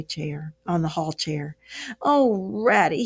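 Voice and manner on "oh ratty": dismal cry. Acted. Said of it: "he cried dismally".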